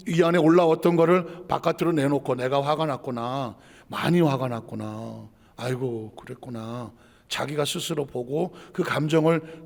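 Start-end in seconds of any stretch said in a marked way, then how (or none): 2.3-6.9 slow, lower, softly acknowledging; soothing self-talk. Shown as a demonstration. Preacher models owning one's anger to calm it, soothing. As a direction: talk yourself down slowly and gently. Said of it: "그 감정을 인정해주면".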